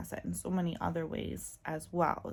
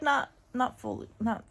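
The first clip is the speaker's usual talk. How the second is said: ordinary talk, nothing marked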